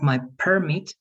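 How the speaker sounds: my PERmit, with the weight on PER; stress on first syllable. Shown as a demonstration. Teacher giving nightclub license example, "permit" stressed on PER. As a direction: noun "permit" stressed at the front. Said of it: "stress is going to be important".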